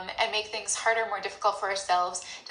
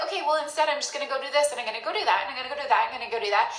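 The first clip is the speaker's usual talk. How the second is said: breezy avoidance; 2 semitones higher, 3 dB louder, much faster than usual. Pretend. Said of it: "you're like".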